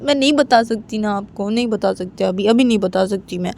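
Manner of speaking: lightly voiced, anxious daughter's plea; pleading daughter. Daughter asking Papa about life after college, pleading. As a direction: press Papa for an answer, repeating yourself insistently.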